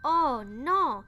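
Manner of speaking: loud, breathy alarmed cry; breathy shout of dismay; sailor cries out. A narrator's reading. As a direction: gasp it out in alarm. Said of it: "s'est écrié le matelot".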